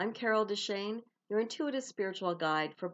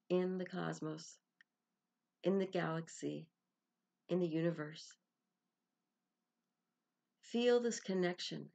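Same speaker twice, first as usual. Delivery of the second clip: calm meditation voice with long pauses between phrases; guided meditation. Acted. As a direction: guide them gently inward, phrase by unhurried phrase.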